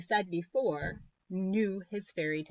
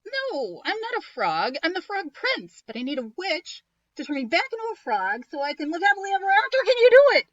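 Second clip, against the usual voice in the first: fast and rising to a shout; all in one breath; 12 semitones higher, 9 dB louder, faster than usual. Acted. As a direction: rush it out in a single breath. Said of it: "in one long breath".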